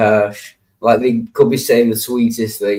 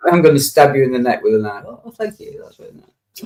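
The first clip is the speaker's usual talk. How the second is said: mock exchange; 4 semitones higher, faster than usual. Mock Spanish threat and reply.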